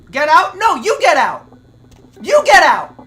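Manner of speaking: loud, defiant yell at the ghost; yelling get out. Real, not acted. Gamer yelling at the ghost to get out. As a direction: bark it back at him.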